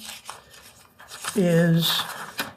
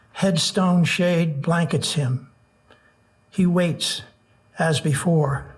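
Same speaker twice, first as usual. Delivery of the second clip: nervous open mic poet. Acted. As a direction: read each line with long pauses. Reads a tanka triptych aloud.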